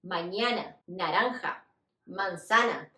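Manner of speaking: "mañana", "naranja", "manzana" with every A open and oral; open Spanish A. Shown as a demonstration. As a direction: keep the A in "mañana", "naranja", "manzana" free of nasality. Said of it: "nunca van a pronunciar esa A nasal".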